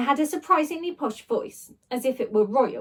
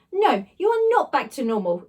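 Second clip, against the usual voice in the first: exclaiming; 3 semitones higher, 4 dB louder than usual. Acted. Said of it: "exclaimed Ned".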